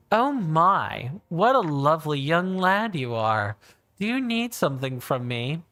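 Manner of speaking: lightly voiced flirty Gerudo woman; a hint of a coy shopkeeper lady; react voice. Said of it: "what I call my react voice".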